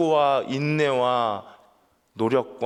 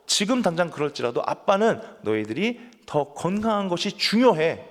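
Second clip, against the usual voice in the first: father firmly explaining; 5 semitones higher than usual. Retold or imitated. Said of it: "그렇게 설명을 하면서".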